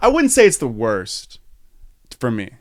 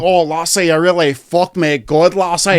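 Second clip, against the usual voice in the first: lightly voiced mock-seductive Scottish accent; a hint of sexy Scottish; 3 semitones higher than usual. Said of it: "sexy Scottish".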